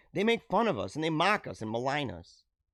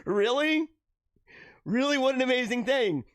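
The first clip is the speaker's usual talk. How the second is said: incredulous; 6 semitones higher than usual. Real, not acted. Incredulous at calling life boring.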